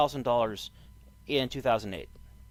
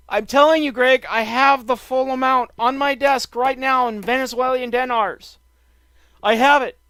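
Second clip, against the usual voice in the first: laughing bluff; 3 semitones higher, 6 dB louder than usual. Real, not acted. Laughing while bluffing payment.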